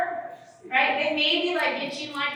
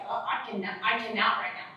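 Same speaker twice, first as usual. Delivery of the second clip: softer, drained "I cannot"; overwhelmed murmur; 4 semitones lower, 6 dB quieter than usual. Retold or imitated. Silent flutter answering a heated partner, softly overwhelmed. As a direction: shrink away, overwhelmed. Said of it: "they're just like".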